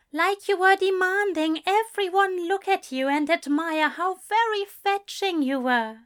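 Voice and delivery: a prim angel gently teasing; teasing Aziraphale. A narrator's reading.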